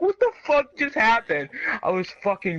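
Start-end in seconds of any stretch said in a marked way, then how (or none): 0.0-1.5 high, loud incredulous question; retold stunned disbelief. Onlooker after classroom fight, stunned disbelief. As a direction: relive the bewildered outburst. His stunned reaction in retelling.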